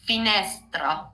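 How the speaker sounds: "Finestra" said fi-NES-tra; Italian "Finestra", accent on NES; correct Italian pronunciation. Shown as a demonstration. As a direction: model "Finestra" with open, stressed middle e. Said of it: "the right pronunciation for the word".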